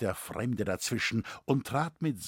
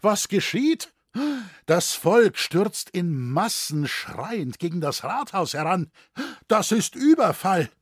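high, loud cries of alarm; urgent, excited outcry; alarmed shouting; 7 semitones higher, 7 dB louder than usual. A narrator's reading. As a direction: raise the alarm to the room. Councillors see the mob storming up.

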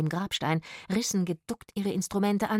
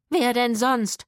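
loud, higher angry retort; domineering snap; 5 semitones higher, 8 dB louder, slower than usual. A narrator's reading. Woman rounding on her partner, angry snap. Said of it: "herrschte die Frau ihn an".

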